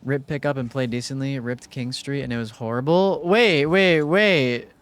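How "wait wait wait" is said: surprised. Real, not acted. Reacting to chat.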